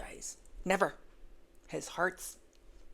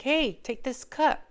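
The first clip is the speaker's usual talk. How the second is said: coaxing helper; 7 semitones higher, 8 dB louder, slower than usual. Retold or imitated. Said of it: "somebody wanting to tell him or teach him".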